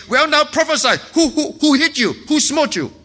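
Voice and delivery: sneering mockery of the blindfolded prisoner; mocking taunt. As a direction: taunt him like a cruel bully. Soldiers mock Jesus.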